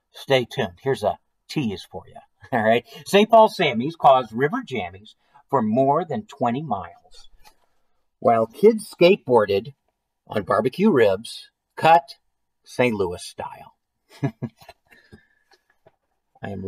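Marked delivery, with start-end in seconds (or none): 3.1-13.8 deliberate read-aloud, phrase by phrase; story narration. A narrator's reading. Reading a silly food-storm story to listeners, story narration. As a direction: let each silly image land as you read. Reads a picture book aloud.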